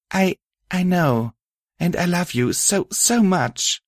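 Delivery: softly. Acted. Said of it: "I said softly".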